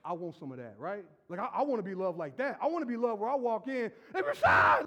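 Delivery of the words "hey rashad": louder, higher happy hello; calling out. Retold or imitated. Friends welcoming Rashad, loud calling out. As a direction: call out across the room.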